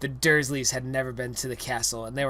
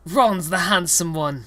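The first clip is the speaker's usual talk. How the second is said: muttered; 5 semitones higher, 6 dB louder than usual. Acted. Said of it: "muttered Harry".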